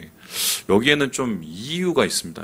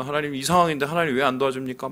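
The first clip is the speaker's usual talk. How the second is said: fast complaint; faster than usual. Retold or imitated. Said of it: "막 불평을 했다고 쳐보세요".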